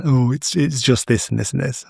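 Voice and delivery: lightly imitated Leicester accent. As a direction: answer with a touch of Leicester accent. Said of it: "like, a Leicester accent".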